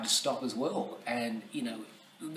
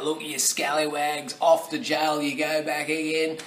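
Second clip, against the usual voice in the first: loud, raised-pitch playful telling-off; mock-scolding guard; 4 semitones higher, 8 dB louder than usual. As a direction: send the rascals off with hammed-up authority. Acts out guards sending prisoners back.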